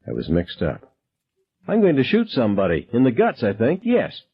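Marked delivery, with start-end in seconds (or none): 1.7-4.2 casual menace, pitched up; toying threat. Acted. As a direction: play with him like a cat. Gunman toying with shooting threat.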